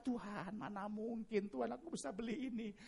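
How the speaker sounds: softly voiced hopeless lament; pessimistic complaint. Preacher acting his own doubt over costly eye medicine, pessimistic. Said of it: "membuat saya kan mengeluh dan pesimis".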